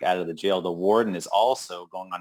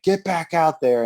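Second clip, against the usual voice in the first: higher, mock-harsh command; barked order; 10 semitones higher, 3 dB louder than usual. Convict orders beaten partner out, mock bark. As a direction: shove him back out with words. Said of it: "he's like".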